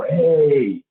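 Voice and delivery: short loud group-style yell; mock team response; team shout. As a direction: bark it back like a whole squad. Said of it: "they would go".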